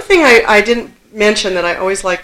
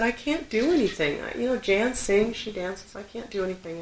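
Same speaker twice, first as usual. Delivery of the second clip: put-on child crying; 2 semitones higher, 9 dB quieter than usual. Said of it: "she heard me crying".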